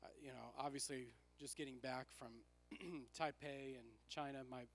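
worn, tired raspy voice. Real, not acted. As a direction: talk through a hoarse, raspy throat. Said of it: "I apologize if my voice is raspy today".

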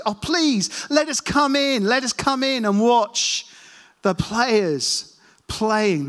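high, slow begging voice; pleading. Retold or imitated. Visitors begging to come in.

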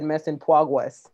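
PROGRESS said as "pwogwess". Real, not acted. Host admits almost saying the show name wrong, childlike slip. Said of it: "now I'm talking like that little girl".

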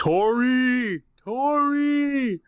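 high, loud cheer for the manager; cheering shout. Real, not acted. Cheering the Diamondbacks manager's name, loud and high. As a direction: call out the name like a fan.

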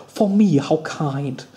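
slow, lightly imitated Malcolm McDowell Caligula accent; mock the odd Caligula accent, drawing it out; a hint of Caligula accent, slowed down. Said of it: "what is this voice".

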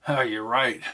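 talking through a mouthful of cheese; words round a bite of food; mouth full. Acted. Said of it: "his mouth full of cheese".

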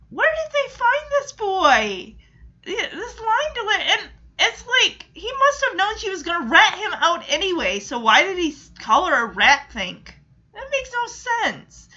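high, laugh-broken complaint; laughing hard. Real, not acted. Vlogger mocking the boy's acting, laughing hard. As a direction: laugh helplessly through the rant. Laughing at the bad child actor.

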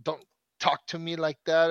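bratty child snapping back at mom, half-acted; kids yelling back. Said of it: "The kids were yelling back at her".

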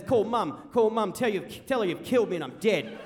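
loud, insistent orders; acted angry demand; tirade. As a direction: bark it out as a wounded, furious dad. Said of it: "Dad continues this tirade of abuse".

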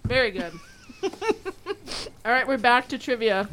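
talking through a mouthful; words round a bite of food; mouth full. Real, not acted. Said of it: "My mouth is so full".

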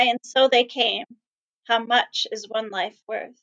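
measured spoken-word poem reading. Acted. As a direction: read it like a solemn public poem. Reading her poem aloud.

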